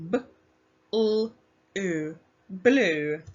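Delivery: each sound of blue said apart, then blended; sounding out letters. Shown as a demonstration. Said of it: "Let's pinch your sounds".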